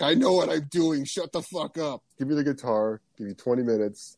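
cocky confidence. Retold or imitated. A musician taking over the guitar, cocky. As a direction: brush them off with swagger. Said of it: "He was like".

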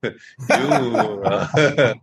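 drawn-out teasing broken by laughter; sarcastic, laughing. Acted. Devotee teasing Kamadev, sarcastic with laughter. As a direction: stretch the words and giggle through the mock praise. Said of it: "this is a little sarcastic".

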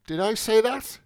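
a hint of a surprised young man; Mulligan's voice.

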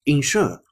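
ensure said the British way, no r at the end; 英式发音的ensure. Shown as a demonstration. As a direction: ensure ending open, like "en-shoo-ah". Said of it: "这是典型的英音".

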